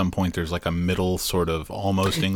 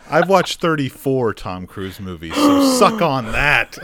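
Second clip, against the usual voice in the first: slow smug boast; 3 semitones higher, slower than usual. Real, not acted. Teasing boast in friendly rivalry.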